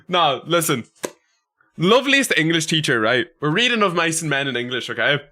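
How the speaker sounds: usual speaking voice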